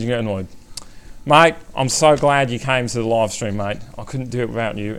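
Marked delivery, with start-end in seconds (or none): 1.2-5.0 chummy Aussie accent; Australian accent. Shown as a demonstration. Streamer thanking viewers for coming, Australian accent. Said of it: "you got your Australian accent".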